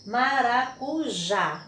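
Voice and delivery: maracujá divided into syllables, landing on JÁ; measured maracujá, syllable by syllable, JÁ strongest; stress on last syllable. Shown as a demonstration. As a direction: sound out maracujá, stressing the final já. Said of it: "a última sílaba é tônica".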